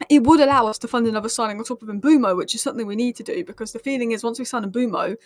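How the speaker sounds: talking around a sore tongue; words slightly slurred by a tongue cut. Real, not acted. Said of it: "I've got a fat cut on my tongue, which is why I'm talking weirdly".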